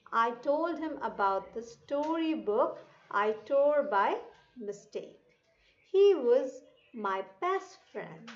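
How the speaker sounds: measured phrase-by-phrase classroom reading; read-aloud lesson. Shown as a demonstration. Teacher reading a story for children to repeat, careful read-aloud. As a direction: read it out deliberately, pausing between phrases. Reads passage aloud to pupils.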